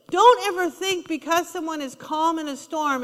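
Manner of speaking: ordinary delivery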